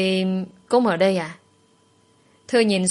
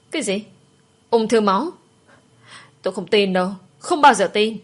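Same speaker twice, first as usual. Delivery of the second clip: shouting in disbelief. Acted. Daughter hearing of her mother's leukemia, shouting in disbelief. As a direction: shout it, refusing to believe the news. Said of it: "Hét xong như vậy".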